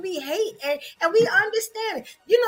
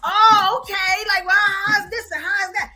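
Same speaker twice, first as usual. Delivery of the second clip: admiring Southern locals; 3 semitones higher than usual. Retold or imitated. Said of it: "they love me out there".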